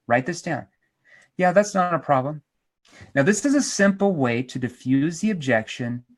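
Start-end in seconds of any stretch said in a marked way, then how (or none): 1.4-2.4 polite, unbothered acknowledgment; matter-of-fact reassurance; calm, matter of fact. Shown as a demonstration. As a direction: keep it calm and easy. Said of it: "Calm, polite, matter of fact".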